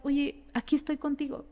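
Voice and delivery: reassuring. Acted. Models soft reassurance to a sufferer.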